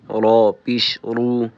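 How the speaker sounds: full, heavy R in رو. Shown as a demonstration. Teacher drilling the letter ra with damma, heavy R.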